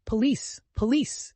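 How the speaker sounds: high shouts for the police; shrill mock alarm; yelling. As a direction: scream for the police. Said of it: "yelled Amalia Ivanovna".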